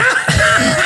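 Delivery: a quick high laugh imitating the nurse; nurse's laugh. Patient retelling how the nurse laughed at him, quick laugh. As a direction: mimic the nurse cracking up, short and breathy. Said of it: "She starts laughing".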